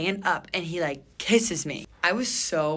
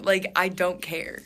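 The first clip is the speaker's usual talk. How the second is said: slow emphatic; 2 semitones higher, 4 dB louder, slower than usual. Real, not acted.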